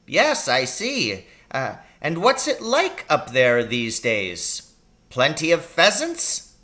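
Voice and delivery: a brisk country doctor fussing over his patient; little old doctor voice. A narrator's reading. Doctor asking his injured patient about the pain.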